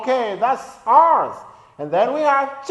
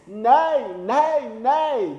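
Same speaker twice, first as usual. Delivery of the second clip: lightly voiced horse neigh; much slower than usual. Shown as a demonstration. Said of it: "And horse says".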